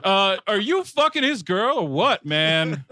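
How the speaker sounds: mildly goofy press question; put-on reporter. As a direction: ask like a clueless journalist. Reporter character asks crude question.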